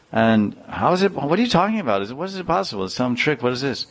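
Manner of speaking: a hint of a suspicious husband; incredulous. Husband doubting his wife's story, incredulous.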